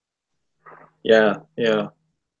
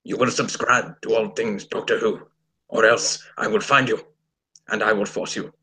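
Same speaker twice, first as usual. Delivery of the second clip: Strax; 3 semitones lower than usual. Acted. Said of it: "I can do a Strax impression".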